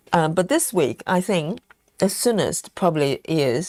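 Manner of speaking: talking through chocolate; eating chocolate. Real, not acted. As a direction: mouth full of chocolate. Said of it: "I've got chocolate in my mouth".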